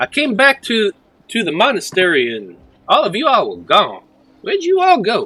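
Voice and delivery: put-on a bit stronger Southern accent, high and swooping. Role-play character back at the monastery asking the group, southern accent. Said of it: "I was a bit more southern like this".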